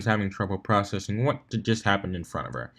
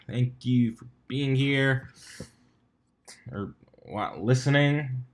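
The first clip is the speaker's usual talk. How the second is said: soft, slow unvoiced thank-you; whispered; 4 dB quieter, slower than usual. Real, not acted. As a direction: whisper your gratitude slowly.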